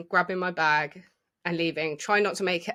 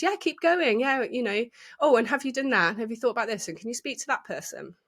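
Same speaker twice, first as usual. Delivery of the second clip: mock breezy boss; 5 semitones higher than usual. Imitating a breezy boss who keeps adding tasks to her, high then trailing off. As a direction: brush her off like a busy manager who never stops adding jobs.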